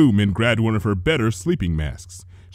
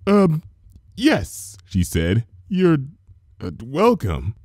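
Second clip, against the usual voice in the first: higher, hesitant baker voice; uneasy reply; 5 semitones higher, slower than usual. A narrator's reading. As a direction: back away nervously. Nervous Missus Cake.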